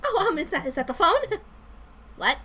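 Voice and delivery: high, giggly fake surprise; evasive Lindsay. Coworker pretending the phone rings, high and giggly. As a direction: hear an imaginary phone, pitched high.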